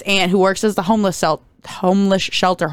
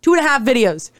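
higher-pitched mock exasperation; pleading protest; 5 semitones higher than usual. Complaining to filmmakers who killed her, exasperated pleading. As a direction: plead upward, building from a plain start. Retells own protest at a film death.

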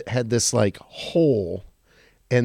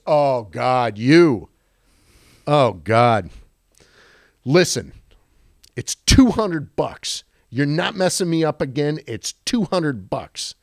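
exasperated manager; 3 semitones higher, 3 dB louder than usual. Retold or imitated. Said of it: "He goes".

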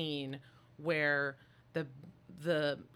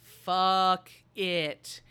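mock defiant; 2 semitones higher, 8 dB louder than usual. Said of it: "Ripley turns and just says".

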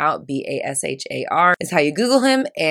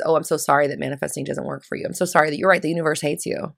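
mock sympathy; 2 semitones lower, faster than usual. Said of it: "this kind of sympathy that says".

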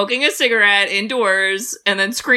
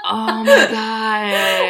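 laughing; 3 dB louder, much slower than usual. Real, not acted. Excited laughing exclamation.

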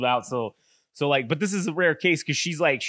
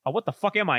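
higher-pitched retold confusion; mock bewilderment; 6 semitones higher than usual. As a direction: lightly act out waking up baffled. Voicing the reincarnated man waking up.

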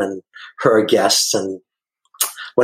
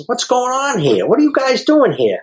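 concerned question; 12 semitones higher than usual. Retold or imitated. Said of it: "I start to talk to the parents".

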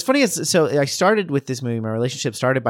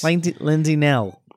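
attempted Chicago accent, pitched up; 4 semitones higher than usual. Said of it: "we haven't done a single Chicago accent".

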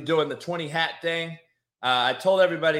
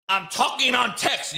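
mock the heckler in a raised, silly voice; mocking imitation; 7 semitones higher than usual. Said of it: "You sound like this".

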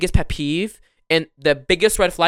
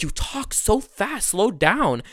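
mock complaint; 5 semitones higher, 4 dB quieter, much slower than usual. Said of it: "they're like".

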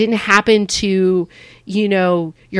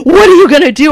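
amused friend; 8 semitones higher, 10 dB louder, faster than usual. Retold or imitated. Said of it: "And he'd be like".

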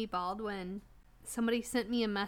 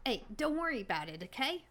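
put-on New England accent. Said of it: "New England accent".

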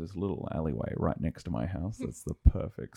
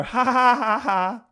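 high, loud taunting ha ha; mocking laugh; 10 dB louder, slower than usual. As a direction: jeer like a smug kid. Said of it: "they go".

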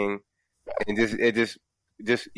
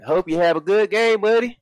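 high, loud mock Canadian with a Southern twang; Alabama Canadian accent; 10 semitones higher, 5 dB louder than usual. S0 mocks a Toronto fan, hammed-up Alabama Canadian accent. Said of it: "I did a fucking Alabama accent ... Canadian accent".

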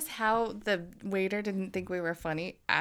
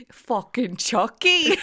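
laughing while saying it; cracking up mid-phrase; 2 semitones higher, 6 dB louder, slower than usual. Real, not acted. Laughing at the Chucky photo.

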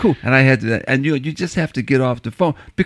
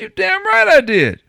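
higher, slow, punchy brag; proud boast; 4 dB louder than usual. Retold or imitated. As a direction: slam it home proudly. Proudly tells buddy he's vaccinated.

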